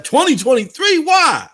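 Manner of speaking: high incredulous mock question; mocking doubter. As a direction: mimic the scoffers, rising disbelief. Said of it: "Remember when the people was like".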